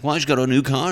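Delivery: high, loud competitive brag; mock one-upping. Coworker answering a rival's brag, mock one-upmanship. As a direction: push it up to outdo a rival. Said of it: "try to, like, one-up each other".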